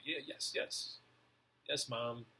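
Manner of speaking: imitating a compliant child answering mom; eager obedient kid.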